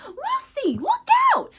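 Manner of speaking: high, loud cry of alarm; shouted warning. Retold or imitated. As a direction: yell out to warn her. Mina shouts warning to Lucy.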